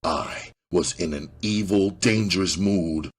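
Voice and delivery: ordinary delivery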